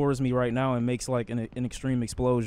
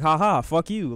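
mocking taunt; 3 semitones higher, 4 dB louder than usual. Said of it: "They could be like".

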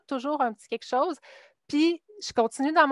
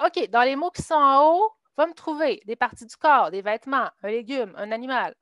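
teacher giving instructions; 3 dB louder than usual. Retold or imitated. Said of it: "je vais leur dire".

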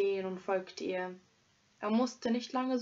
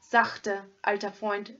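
soothing; 3 dB louder than usual. Acted. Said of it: "sagte der Räuber beschwichtigend".

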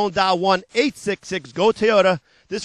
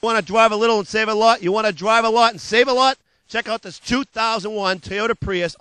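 hard-sell ad read. Acted. Car dealer pitching used cars to TV viewers, hard-sell ad voice. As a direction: sell it like a late-night car ad.

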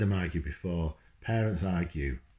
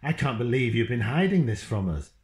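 mum shouting; 3 semitones higher, 4 dB louder than usual. Acted. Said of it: "Mum was shouting".

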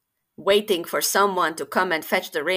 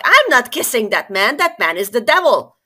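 defiant refusal; 4 semitones higher, 7 dB louder than usual. Acted.

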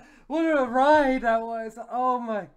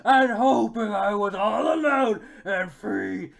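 hammed-up Judy; 5 dB louder than usual. Reading Judy's speech as hammy performance.

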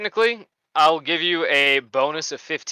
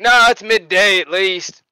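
dopey correction; 4 semitones higher, 7 dB louder, slower than usual. Acted. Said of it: "It's like".

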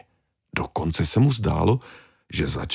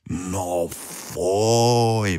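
squeal; 2 semitones higher than usual. Acted. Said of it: "vyjekly obě ryby".

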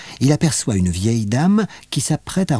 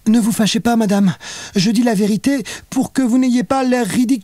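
stammering; 10 semitones higher than usual. A narrator's reading. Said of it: "Léa se met à bafouiller".

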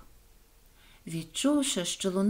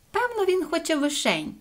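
high-pitched musing realisation; clever guess; 7 semitones higher than usual. A narrator's reading. Соня guesses what the passer-by wants, high pleased musing. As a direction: reason it out brightly to yourself. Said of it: "здогадалася розумна Соня".

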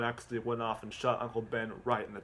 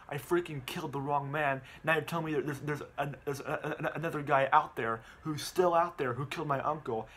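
a mild mock outburst of anger; retold upset outburst; 3 semitones higher than usual. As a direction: vent like you just learned the truth. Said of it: "Peter gets very, um, mad".

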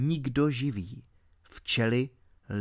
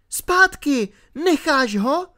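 high, loud command to a dog; scolding shout; 13 semitones higher, 5 dB louder, slower than usual. A narrator's reading. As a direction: call the dog off sharply, high-pitched. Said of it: "okřikla Alenka psa". (ostré okřiknutí vysokým hlasem)

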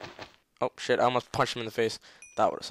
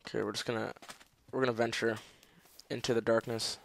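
peaceful voice; 8 dB quieter than usual. Real, not acted. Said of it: "talking in my very peaceful voice".

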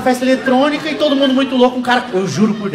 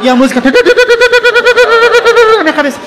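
very high, loud, slow and dreamy; high stretched trance voice; 13 semitones higher, 7 dB louder, much slower than usual. Retold or imitated. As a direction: float it out like the music is in your head. Mimics music in head while high. (voz alta, lenta e viajada)

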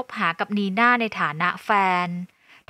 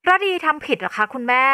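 higher, indignant question; raised-pitch retort; 4 semitones higher, 3 dB louder than usual. Acted. Daughter not seeing what she did wrong, high indignant voice. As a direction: throw the question back in a high voice. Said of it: "หันมาทำเสียงสูงใส่".

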